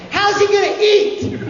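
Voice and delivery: high, loud incredulous laughing yell; mocking shout. The wrangler scoffs at the actor's belief, high and loud.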